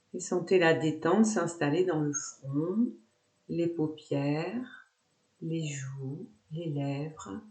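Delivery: softening, lowering meditation voice; guided relaxation. Acted. Yoga teacher guiding students to relax the face, soothing. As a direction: ease down slowly part by part.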